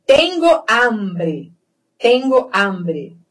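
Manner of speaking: "hambre" with open a, slow phrase; open vowel. Shown as a demonstration. Teacher modelling a Spanish phrase, slow open a. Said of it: "Sempre aberto".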